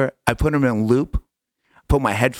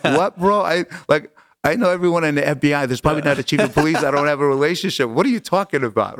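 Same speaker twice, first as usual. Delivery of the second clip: higher-pitched incredulous protest; mock-exasperated, pitched up; retold disbelief; 5 semitones higher, faster than usual. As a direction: push back at your clueless brother. Retold disbelief at brother's offer.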